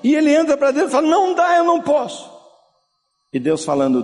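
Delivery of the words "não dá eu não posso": anguished refusal. Retold or imitated. Son refusing, high pitch.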